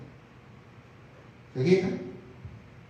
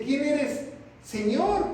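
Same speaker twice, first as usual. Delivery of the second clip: Pablo's question; 6 semitones higher, much slower than usual. Acted. Pablo asks who speaks.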